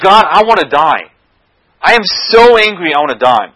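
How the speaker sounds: mock-furious, dramatic complaint to God; angry Jonah. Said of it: "And Jonah gets super angry again".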